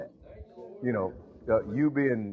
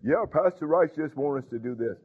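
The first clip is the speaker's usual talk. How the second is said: mocking evil spirit; 2 semitones higher than usual. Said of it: "the evil spirit say".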